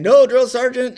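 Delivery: recruit shouting. Retold or imitated. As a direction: bark it back like a private. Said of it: "And I'm saying".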